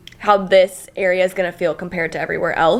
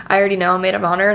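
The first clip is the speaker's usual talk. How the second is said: ordinary talk, nothing marked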